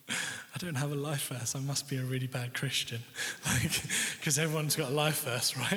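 laughing between phrases; amused retelling. Retold or imitated. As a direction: tell it through chuckles, mocking your own worry. Laughs at his own old worry.

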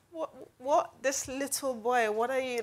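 lightly imitated Jamaican accent, incredulous; mock disbelief with a hint of Jamaican accent. Imagining Samuel's response to young David, light Jamaican accent. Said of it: "like, a Jamaican accent".

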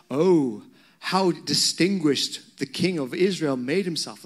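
sarcastic mock admiration; Michal. Michal to David after his dancing, sarcastic. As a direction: drip light sarcasm on the praise. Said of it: "hear the sarcasm in her voice".

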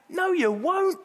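emphatic disbelieving reply; scoffing retort. Real, not acted. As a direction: shoot the idea down with disbelief. Preacher scoffs at the promise.

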